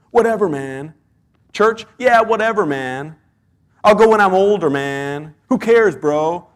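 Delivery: a lightly voiced shrugging bro; mock the careless churchgoer with a lazy shrug. Preacher imitating people who skip church, mock bro voice. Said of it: "we don't all sound like that".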